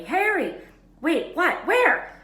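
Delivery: high, loud, breathless cries; excited shouts. Acted. Friends see Harry suddenly diving toward the ground: excited shouts. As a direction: yell in alarm at the dive. Hermione and Ron spot the dive.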